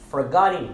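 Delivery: "forgotten" with the TT not crisply sounded, ending in "in"; silent T, IN ending. Shown as a demonstration. Teacher models "forgotten" for learners, T silenced. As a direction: end "forgotten" in "-in", no hard T. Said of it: "Essa é a maneira certa de pronunciar".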